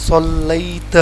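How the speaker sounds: صلیت with the ai glide, sallait; teacher models the right صلیت; correct صلیت. Shown as a demonstration. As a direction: say صلیت as sal-lait. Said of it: "لیکن اس کو ہم پڑھیں گے".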